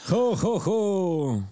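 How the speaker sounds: Santa laugh. Pretend. Friend asked to sound like Santa, mock Santa laugh. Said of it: "¿Cómo Santa Claus?".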